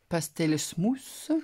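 English words in a French accent, drawn out slowly; real French speaker's rough English; bad English accent. Real, not acted. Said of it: "Pardonnez mon accent anglais".

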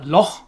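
"loch" ending in a hard throaty German ch. Shown as a demonstration. Teacher giving an example of the hard C H sound, throaty ch. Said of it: "this hard, throaty sound".

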